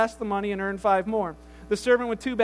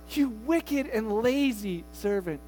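1 slow rebuke; 4 dB quieter, much slower than usual. Acted. Master rebuking.

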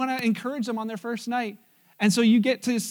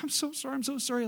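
mock meek apology; 4 semitones higher, 7 dB quieter, faster than usual. Nervous waiter apologizing.

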